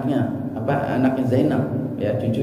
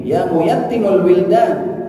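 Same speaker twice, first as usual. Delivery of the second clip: mourner's wail; 6 semitones higher, 4 dB louder, slower than usual. Retold or imitated. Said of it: "dia dibilang".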